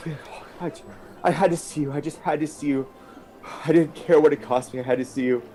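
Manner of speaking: acted, emotional confession; a touch of crying in an urgent reunion; tearful pleading. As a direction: plead through held-back tears. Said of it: "he's just crying".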